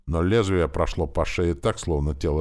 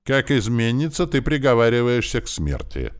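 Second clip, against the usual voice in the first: lofty, cold announcement of death; haughty verdict; 9 semitones higher, 5 dB louder than usual. A narrator's reading. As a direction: pronounce the sentence from above, higher. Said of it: "сообщил принц высокомерно".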